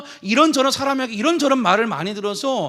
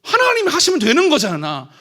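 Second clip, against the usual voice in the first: much higher, louder burst of resolve; surge of courage; 6 semitones higher, 5 dB louder than usual. Retold or imitated. Pastor suddenly filled with courage, much higher and louder. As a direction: leap up with new courage. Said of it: "용기가 막 샘솟는 거예요".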